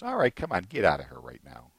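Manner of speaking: lightly voiced Lord, dropping low; a hint of divine command, low-pitched. The Lord at a sleeper's bedside, mildly commanding. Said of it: "and the Lord just".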